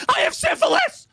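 acted, very high, shrill, sudden, out-of-nowhere shriek. Retelling a class video where she blurts it out at the family dinner table, retelling a scream. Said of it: "Just screams it".

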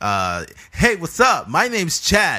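put-on typical online video host intro voice. Asked-for voices are going around; show how YouTubers greet viewers, in a typical YouTuber voice. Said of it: "YouTubers have that fucking typical".

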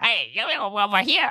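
high, kitschy horror-movie call like a loon. Imitating the crazed old man in the cave: Scooby-Doo voice. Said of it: "His just like".

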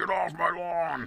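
put-on high-pitched, grumpy old-man yell in a gray alien voice.

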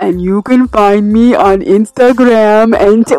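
deep, low voice. Giving social media handles at the end, asked for a deep voice: deep voice. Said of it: "Deep voice".

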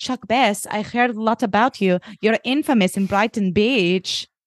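broad put-on Eastern European accent. Retelling how a model approaches a character, in a broad Eastern European accent. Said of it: "It was a broad Eastern European impression".

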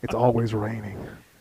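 dark, brooding put-on voice. Co-hosts riff on the DC Universe; DC voice. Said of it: "I got to put on my DC voice".

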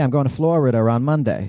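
Bostonian accent. Demonstrating how regional accents sound, saying a sample sentence in a Boston accent. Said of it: "That's what Boston people do".

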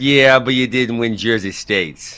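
put-on Jersey mobster accent. Imitating some guy on the boardwalk, in a mobster-sounding jersey accent. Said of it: "You sound like a Chicago area mobster".

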